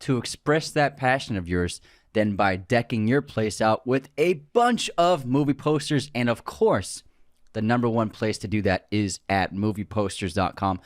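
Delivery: upbeat sponsor read. Acted. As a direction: read it like a podcast ad. Reads a sponsor ad.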